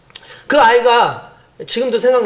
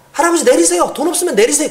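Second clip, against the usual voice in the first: higher, curt driver ordering; impatient bus driver; 5 semitones higher than usual. Retold or imitated. Bus driver telling the old man to get off, impatient. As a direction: shoo him off the bus impatiently.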